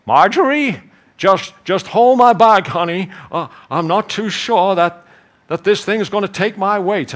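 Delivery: hesitant man calling his wife; nervous husband. Acted. Man to his wife at a glass floor, nervously hesitant. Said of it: "he'll say to his wife".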